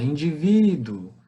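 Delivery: "Indivíduo" dito devagar, sílaba por sílaba; pronúncia natural. Shown as a demonstration. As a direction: pronounce "Indivíduo" slowly, with "duo" as one closing syllable. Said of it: "sempre pela pronúncia". ("Indivíduo" pronunciado devagar)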